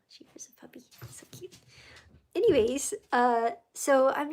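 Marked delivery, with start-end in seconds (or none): 0.1-1.5 soft unvoiced whisper with a laugh. Real, not acted. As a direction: hush it like the pet is near. Whispering about her pet puppy.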